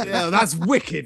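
laughing mock praise.

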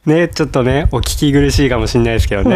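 stuffy nose from a cold; nasal voice. Real, not acted. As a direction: talk through a blocked nose. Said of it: "すごいちょっと鼻声で。".

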